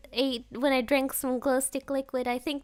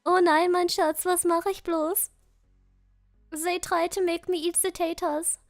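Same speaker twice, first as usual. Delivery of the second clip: German Gollum, aggrieved; hammed-up German-accented lament sliding between languages; 2 semitones higher than usual. Gollum protests to his Schatz about taters, German-accented wail. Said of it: "Gollum became German all of a sudden".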